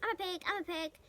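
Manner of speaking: playful shouting. A narrator's reading. Avery playing pig in the crate, loud gleeful. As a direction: show off like a silly boy.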